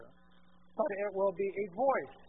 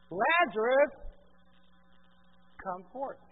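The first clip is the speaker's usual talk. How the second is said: calling Lazarus out of the tomb, loud and high; a commanding call to a dead man; loud cry; 4 semitones higher, 9 dB louder, slower than usual. Acted. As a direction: cry out the name with force. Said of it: "cried out with a loud voice".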